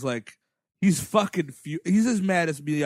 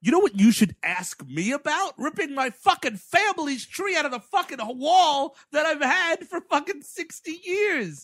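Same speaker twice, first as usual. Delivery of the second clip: mock Miyagi rant; 9 semitones higher than usual. Miyagi ranting at LaRusso about the ripped-out tree. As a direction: rant with a laugh in the voice.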